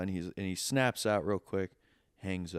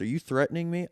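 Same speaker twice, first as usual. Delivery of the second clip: mock caller; 8 semitones higher, 5 dB louder, faster than usual. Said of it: "And he goes".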